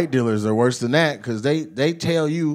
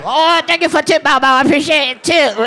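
high mock Asian dealer accent; comic Asian dealer gratitude, pitched high; grateful Asian dealer; 11 semitones higher, 4 dB louder than usual. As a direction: gush thanks as an imitated Asian dealer. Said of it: "I perfected that voice".

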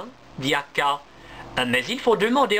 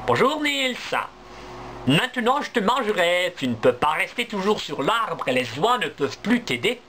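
mocking fox; 3 semitones higher than usual. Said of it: "elle rit et dit".

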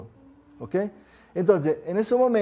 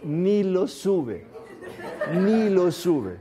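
timid helpless type; 3 semitones higher, much slower than usual. Acted. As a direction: drag it out like a helpless man who won't even open the hood. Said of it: "¿El blanco qué hace?". (el tipo blanco sin tocar el carro, lento y riéndose)

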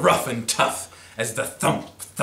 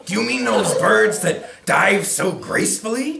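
cheery; 8 semitones higher, 4 dB louder than usual. Acted. Tacky asks hunters.

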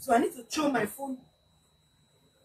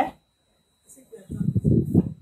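repeated higher and slower, louder; 8 semitones higher, slower than usual. Real, not acted. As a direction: say it again so they hear.

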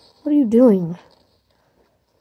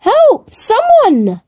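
calling for help; 11 semitones higher, much slower than usual. Real, not acted. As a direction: call up to the players overhead. Stuck alone on the floor.

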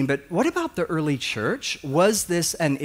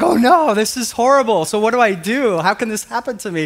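much higher and louder, hammed-up child panic; mock panic; 6 semitones higher, 6 dB louder than usual. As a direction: play a frightened ten-year-old, half laughing. Boy told he's not saved.

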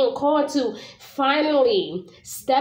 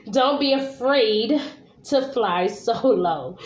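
laughing; slower than usual. Real, not acted. Laughing while rereading the card.

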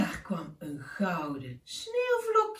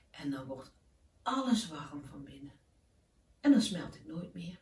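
put-on softer, hushed boy's wish; tender wish; 3 semitones lower, 4 dB quieter than usual. Keesje tells the owl his heartfelt wish, softly. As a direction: say it like a secret dream.

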